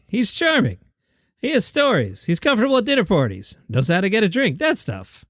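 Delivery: lightly voiced Jerry Seinfeld; a hoarse, half-hearted Jerry; Jerry Seinfeld impression. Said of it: "Jerry goes".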